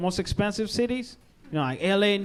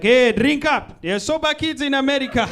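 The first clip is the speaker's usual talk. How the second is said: mock parent yell; 3 semitones higher, 4 dB louder than usual. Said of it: "African parents yelling at their kids".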